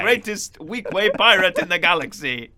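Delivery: deep crispy pirate voice. Pretend. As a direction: announce yourself like a swaggering space pirate. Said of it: "deep, crispy voice".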